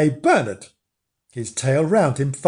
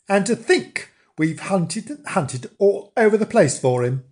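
slightly raised, exasperated complaint; a touch of indignation; mildly cross; 5 semitones higher than usual. Acted. Nobbs complaining about the long hunt, mildly cross. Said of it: "really quite cross".

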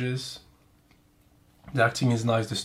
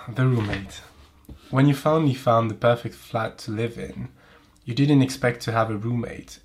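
reading fan fiction. Acted. Reads fanfic aloud.

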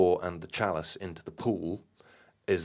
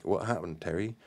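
tenderly. Acted. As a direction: ask him gently, like a friend. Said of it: "she asked tenderly".

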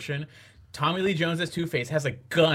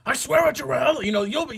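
high, hammed-up villain vow; theatrical, raised-pitch villain; General Zod; 10 semitones higher than usual. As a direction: swear it in a mock dramatic voice. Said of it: "where he's like".

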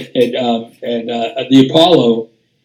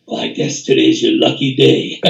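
husky, broken-voiced imitation of a jazz star; 3 semitones lower than usual. Star trumpeter deflating an eager bass player, husky impression. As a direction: rasp it out like a cool trumpeter. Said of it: "And then the trumpeter goes".

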